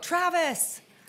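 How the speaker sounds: high, loud, mock nagging tone. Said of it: "Travis knows too well that I'll go".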